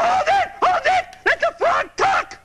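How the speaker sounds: high excited hold it; dramatic high exclamation. Acted. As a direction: theatrically hush the crowd. Grover dramatically halts everyone.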